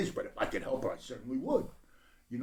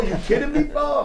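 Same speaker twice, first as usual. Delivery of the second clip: high, laughing squeal of disbelief; real laugh breaking through the words; 14 semitones higher, 5 dB louder than usual. Real, not acted. Joking about his cyborg body.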